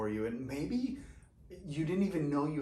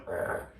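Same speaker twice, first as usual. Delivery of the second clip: croaky rasp. Real, not acted. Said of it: "my voice is going".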